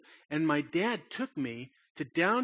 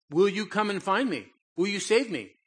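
put-on scared little boy pleading; 5 semitones higher, 6 dB louder than usual. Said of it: "But I said".

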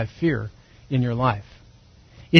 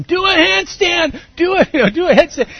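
teasing shout; 12 semitones higher, 3 dB louder than usual. Retold or imitated. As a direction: yell up at him, egging him on. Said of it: "we were screaming and yelling at him".

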